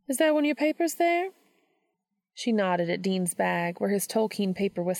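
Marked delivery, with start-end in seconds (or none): 0.1-1.3 put-on higher, gentle older woman voice; kindly teacher reassuring her student; Missouri, gentle mentor. A narrator's reading. Missouri reassuring Dean about his poem, gently.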